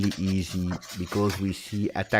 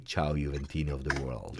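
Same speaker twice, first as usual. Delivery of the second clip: deep voice; 8 semitones lower, 11 dB quieter than usual. Retold or imitated. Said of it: "great deep voice".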